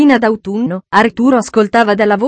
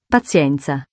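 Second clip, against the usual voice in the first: sighing; 6 semitones lower, 4 dB quieter, slower than usual. A narrator's reading. Meagles giving up on Miss Wade, resigned sigh. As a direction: lower and softer, a resigned sigh. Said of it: "sospirò Meagles".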